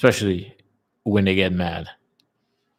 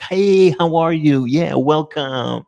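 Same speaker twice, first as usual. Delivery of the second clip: friendly local greeting; 6 semitones higher, 3 dB louder, slower than usual. Retold or imitated. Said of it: "Be like".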